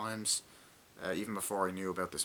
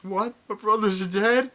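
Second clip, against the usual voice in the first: shocked disbelief; 11 semitones higher, 9 dB louder than usual. Retold or imitated. Retold soldier hearing of his brothers' deaths.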